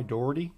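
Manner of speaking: "Dougherty" said DOR-dee, rising slightly; two-syllable guess. Shown as a demonstration. Asking listeners about the town name, two-syllable guess. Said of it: "give us the phonetic spelling".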